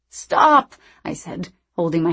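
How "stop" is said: sharp, raised cry; loud protest. Acted. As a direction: shout it to make her stop. Hands over ears, protesting.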